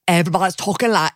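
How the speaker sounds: rough imitation of a Sunderland accent; lightly mock a northeast England accent; a hint of northeast English dialect. Mimics northeast England podcast speech.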